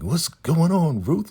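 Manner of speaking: high, drawn-out cheery greeting; all smiles. Retold or imitated. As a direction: imitate River breezing in with a slow, high singsong. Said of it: "River walking over all smiles".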